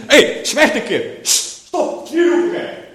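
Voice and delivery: high, loud mock scolding with a shush; imitated telling-off, ending in hissed shushing; crowd hushing. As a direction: act out an annoyed crowd silencing someone. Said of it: "wat deed die menigte?".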